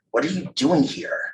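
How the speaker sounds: a touch of schoolboy disdain; mocking question. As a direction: pepper the kid with a mocking question. Mocking boys in a story.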